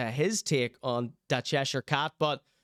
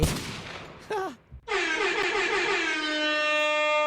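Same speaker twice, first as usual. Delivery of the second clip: high cackling laugh; 14 semitones higher than usual. Real, not acted. Streamer cracks up at chat.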